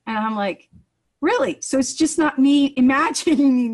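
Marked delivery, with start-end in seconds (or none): 1.2-3.7 surprised really. Retold or imitated. Retold disbelief at good news.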